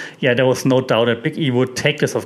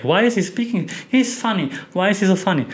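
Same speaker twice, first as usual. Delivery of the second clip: mock kid voice; 5 semitones higher than usual. Mocking kids reacting to Riddle.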